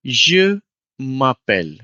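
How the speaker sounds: Je m'appelle repeated slowly and clearly; slow model repeat. Shown as a demonstration. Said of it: "you say".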